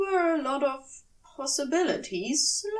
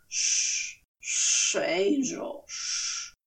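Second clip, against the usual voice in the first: shushing; 4 semitones lower, much slower than usual. Acted. Drunk Crowley hushing Aziraphale.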